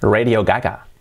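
"Radio" as REY-dio before Gaga; English-style RAY-dio; English pronunciation. Shown as a demonstration. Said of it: "como la canción de una banda".

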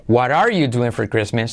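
"What are you doing for Christmas" starting "warar you", R kept; first option. Shown as a demonstration. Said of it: "primera opción". («What are you doing for Christmas» con R en «are»)

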